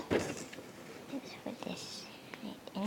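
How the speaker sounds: whispering. Real, not acted. Quiet aside while placing coin.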